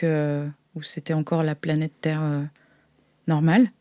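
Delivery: ordinary talk, nothing marked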